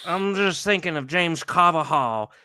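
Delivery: lightly drawled Louisiana voice; Louisiana accent. Shown as a demonstration.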